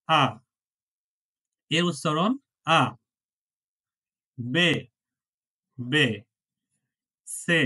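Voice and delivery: আ, বে, সে said the German way as ah, beh, tseh; spelling out আ বে সে letter by letter; German alphabet letters. Shown as a demonstration. Teacher shows students the German letter names: আ, বে, সে, clearly spaced. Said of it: "প্রথমটা উচ্চারণটা কি?".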